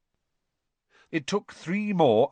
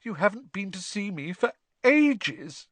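put-on high, airy ghost girl; high girlish ghost voice; Myrtle's ghostly voice; 10 semitones higher than usual. A narrator's reading. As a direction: speak like a glum schoolgirl ghost. Myrtle reproaches.

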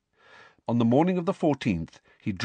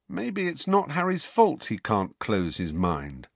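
dark, ominous. Acted. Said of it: "said Ron darkly".

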